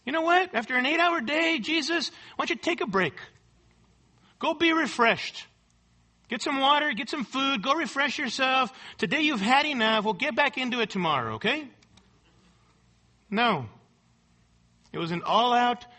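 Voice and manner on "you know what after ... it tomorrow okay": higher, sweetly coaxing tempter; mock gracious Satan. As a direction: coax him like a falsely kind devil. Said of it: "It wasn't like Satan was gracious".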